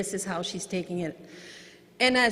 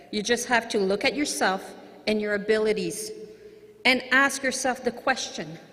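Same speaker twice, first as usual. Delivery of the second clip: reading a quote aloud; 3 dB louder than usual. Shown as a demonstration. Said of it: "I always want to read it".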